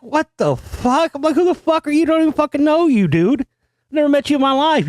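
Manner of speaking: high, squeaky disbelief, stretched out at the ends; incredulous outrage. Retold or imitated. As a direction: act out shrieking what-the-hell at a stranger in your yard. Retold outrage at stranger's challenge.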